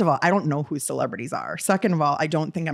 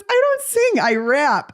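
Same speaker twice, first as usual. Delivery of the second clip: a hint of sassy celebrity; 10 semitones higher, 4 dB louder, slower than usual. Eve's retort voiced in story.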